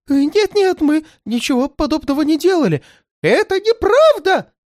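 очень высоко и громко; нагло выкрикни отрицание; крик. A narrator's reading. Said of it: "крикнул Эверетт". (отчаянный крик)

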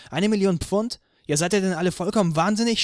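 high, loud, fast outraged scream. A narrator's reading. Anna hears of the million-pound lawsuit and screams in outrage. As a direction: explode at the whole group in disbelief. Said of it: "schrie sie".

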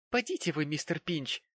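high indignant exclamation. A narrator's reading. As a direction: scold him, offended. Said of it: "негодующе воскликнула Чарити".

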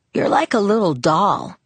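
lightly teasing character voice; a touch of playful needling. A narrator's reading. Boy patting his smaller friend's head, teasing. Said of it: "he teased".

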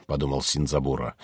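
ordinary delivery

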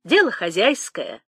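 light teasing shrug; a touch of sly playfulness; playful mockery. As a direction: toss it off with a little jeer. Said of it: "с неожиданной игривостью в голосе, с этакой издёвочкой".

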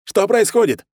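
high, loud radio call; commanding shout into a radio; colonel shouting. A narrator's reading. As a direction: yell into the radio for an answer. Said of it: "закричал полковник".

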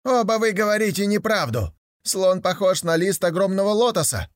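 высоко и громче, горячо возражая; выкрикни «лотоса!» с жаром; восклицание. Acted. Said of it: "воскликнул". (третий слепой спорит с другими, восклицая)

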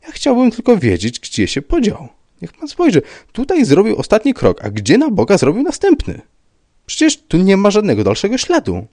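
high, loud, exasperated pleading; agitated insistence. A narrator's reading. Rybka demanding where the next step went, agitated. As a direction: press him frantically for an answer.

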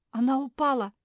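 высокий испуганный вскрик; выкрикни в ужасе от падения подруги; перепуганно. Acted. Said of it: "перепугалась Жози". (Жози в испуге кричит, что Мафи упала)

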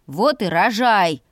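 slow cornered growl; growled retort. Acted. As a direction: snap back slowly, cornered and annoyed. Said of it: "прорычал загнанный в угол".

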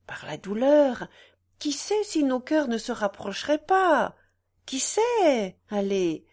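mildly impassioned woman's appeal; earnest pleading woman. Acted. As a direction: plead with a friend, swelling on key words. Voices the pleading wife. (femme qui implore avec ferveur)

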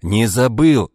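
irritated. A narrator's reading. Ivan irritated that his sister doubts him. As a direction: bite it off, annoyed. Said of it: "раздражённо сказал Иван".

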